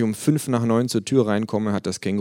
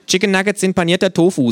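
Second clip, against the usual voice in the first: mouth full; 12 semitones higher, 8 dB louder than usual. Acted. Kangaroo character voice.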